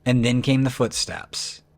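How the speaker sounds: suspenseful, measured scary-story narrator; story narration. A narrator's reading. Narrator telling viewers she lay still in fear, suspenseful story narration. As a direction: tell the creepy tale, letting each beat hang.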